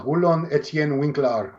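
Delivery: slow, mock-Dutch pronunciation of the name; Dutch accent. Podcaster showing off the full name, Dutch accent. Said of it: "it's my Dutch".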